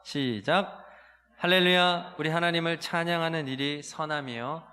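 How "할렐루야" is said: raised, louder praise call; hallelujah call. Real, not acted. Pastor opening worship, louder hallelujah call.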